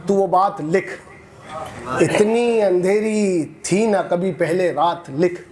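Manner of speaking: slow, measured mushaira verse delivery; poetry recitation. Acted. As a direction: recite it line by line, pausing and lifting repeats. Recites a protest poem.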